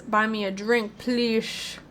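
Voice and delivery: lightly slurred Southern drawl, "sh" for s; a hint of a Western barfly; Western or Southern accent. Doctor Harlow asks for a drink, light Southern accent. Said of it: "I don't know why I think he's Western".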